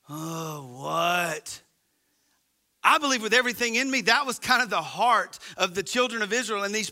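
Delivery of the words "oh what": put-on annoyed kid. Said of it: "laying on the couch".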